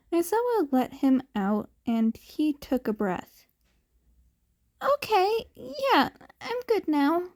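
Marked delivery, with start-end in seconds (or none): 4.8-7.3 said quietly. A narrator's reading. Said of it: "Dekoru said quietly".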